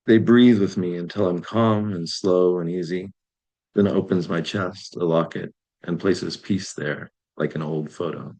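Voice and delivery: slow, measured verse reading; poem reading. Acted. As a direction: read it slowly, letting the last line drop. Reads own poem aloud.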